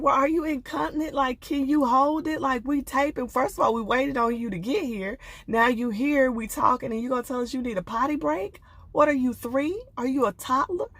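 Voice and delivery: a hint of an impatient therapist; mock scolding expert. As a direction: scold him like a fed-up counselor. Host voices expert scolding Brandon.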